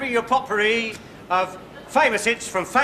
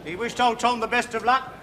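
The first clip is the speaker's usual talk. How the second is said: grand tragic wailing. Acted. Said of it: "a little dramatic monologue".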